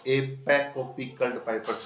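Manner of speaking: slow, each P sound clear; careful slow recitation; slow tongue twister. Shown as a demonstration. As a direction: spell out the alliteration slowly. Repeats phrase slowly.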